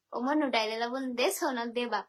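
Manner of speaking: lightly done Barishal dialect line; Barishal dialect catchphrase. Shown as a demonstration. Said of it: "আমাদের আঞ্চলিক ভাষায়".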